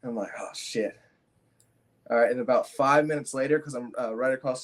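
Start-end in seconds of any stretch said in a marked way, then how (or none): 0.4-1.0 breathy whispered curse under the breath; whispered oh shit. Retold or imitated. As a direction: let it slip as a stunned whisper. Realizing crash, muttered to self.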